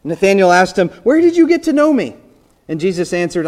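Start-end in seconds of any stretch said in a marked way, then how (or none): 1.0-2.1 high, louder surprised question; astonished question. Acted. Nathanael amazed that Jesus knows him, astonished. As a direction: gasp it out in disbelief.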